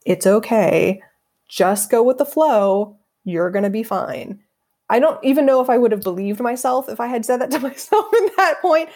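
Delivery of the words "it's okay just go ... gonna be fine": slow, gentle reassurance to her younger self; reassuring self. Retold or imitated. Speaking to her insecure eighteen-year-old self, slow and reassuring. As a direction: soothe a scared teen, slowly. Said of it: "one thing that I could say to myself".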